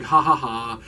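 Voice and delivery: dry spoken "ha, ha, ha"; mock laughter. Explaining the prank was a gag, mock laughter. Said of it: "it was all a gag".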